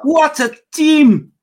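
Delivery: loud, high, drawn-out hype shout; over-the-top cheer. Acted. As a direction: belt it out slow and high like a hype man. Mockingly echoing praise of team.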